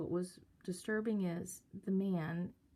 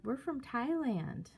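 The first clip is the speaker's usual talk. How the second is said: mimicked young girl, pitched up; sing-songy girl; 5 semitones higher than usual. Girl telling man where they are from, mimicked sing-songy. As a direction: lightly imitate a friendly singsong reply. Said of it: "that's how these girls were".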